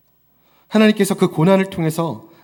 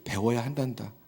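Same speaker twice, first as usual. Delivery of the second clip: gentle parental advice; 6 semitones lower, 8 dB quieter than usual. Retold or imitated. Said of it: "자녀들에게 그런 말을 하죠".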